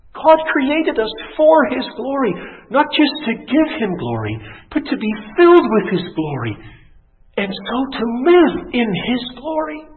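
high, fervent pulpit delivery; impassioned preaching. Acted. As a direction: proclaim it with ringing emphasis. Preacher at rising force.

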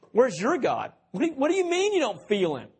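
mock-incredulous challenge, pitch leaping up; imitated taunt. Fellow believer questioning someone who cannot feel God, mildly taunting. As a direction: lightly needle a doubter with pointed questions. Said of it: "it feels like a taunt".

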